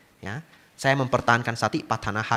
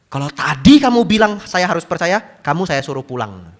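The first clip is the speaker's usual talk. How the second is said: louder, blunt threat; rude warning; 5 semitones higher, 7 dB louder than usual. Retold or imitated. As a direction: warn him off bluntly. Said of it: "ngomongnya kasar sekali". (nada kasar mengancam)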